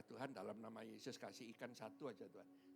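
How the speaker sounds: low, hushed little plea; retold prayer. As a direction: pray softly under your breath, fading out. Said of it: "Saya doa".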